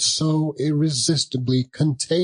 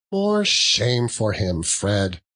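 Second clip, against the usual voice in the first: indignant; slower than usual. Acted. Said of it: "said Scrooge's niece indignantly".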